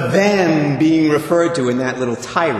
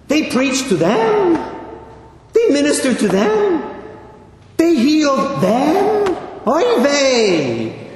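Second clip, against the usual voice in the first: put-on Yiddish accent; 9 semitones higher than usual. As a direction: play an outraged old Jewish mother. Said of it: "That's the best imitation I can do".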